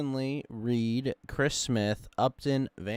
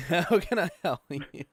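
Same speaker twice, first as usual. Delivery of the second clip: put-on laughing, high, louder Mexican-accent echo; mimicked Mexican accent; 10 semitones higher, 5 dB louder than usual. Co-host mimicking friend's skit quote, laughing Mexican accent.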